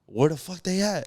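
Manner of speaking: understated puzzled question; puzzled, close to a plain telling; mild retold bewilderment. Kid turns around to find family gone, mildly bewildered. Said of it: "You turn around, you like".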